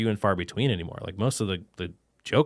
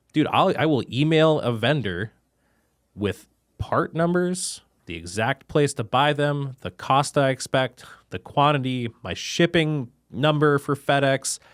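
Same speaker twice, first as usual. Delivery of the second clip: exasperated rant; 6 semitones higher, 5 dB louder than usual. Real, not acted. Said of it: "ranting about vendors".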